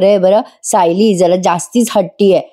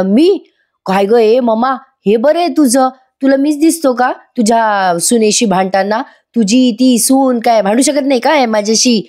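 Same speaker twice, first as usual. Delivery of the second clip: put-on a lightly raised, indignant young man's voice; son protesting to mother; 4 semitones higher than usual. Arjun protests to his mother Kalpana: lightly voiced, indignant son. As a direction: act the son defending himself to his mom, mildly higher.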